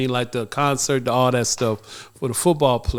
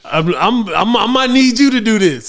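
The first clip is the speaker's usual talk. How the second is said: holding back tears; 7 semitones higher, 4 dB louder than usual. Real, not acted. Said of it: "I'm trying not to cry".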